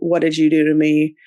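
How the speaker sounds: ordinary talk, nothing marked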